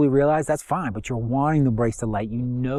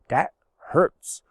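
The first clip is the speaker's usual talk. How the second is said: whispering; 2 semitones higher than usual. Real, not acted. Describes the pain of implosion.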